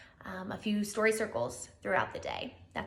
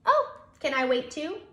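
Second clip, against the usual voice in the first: eager hedgehog; 6 semitones higher, 5 dB louder than usual. Acted.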